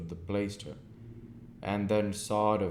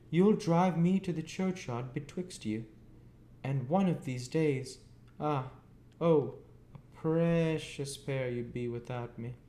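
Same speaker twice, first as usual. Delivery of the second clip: put-on high, cross scolding of a boy; shrill-voiced sister scolding; 9 semitones higher, 4 dB louder than usual. A narrator's reading. Mrs Joe lamenting at them.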